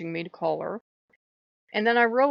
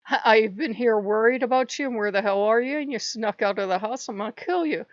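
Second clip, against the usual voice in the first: mock motherly rage; 2 semitones higher, 5 dB louder than usual. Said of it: "I was enraged".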